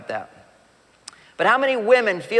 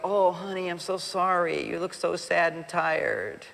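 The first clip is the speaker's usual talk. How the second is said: pitying sympathy; 5 dB quieter, slower than usual. Retold or imitated. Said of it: "You could go".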